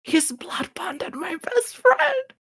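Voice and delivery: high, strangled whisper-shriek; panicked whisper-scream. Acted. Telling an ally her best friend is blood bonded, panicked. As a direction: squeal it in a hushed panic.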